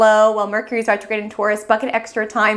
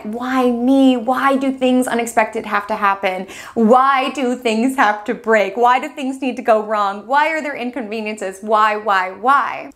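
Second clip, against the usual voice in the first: mock complaining. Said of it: "You're frustrated".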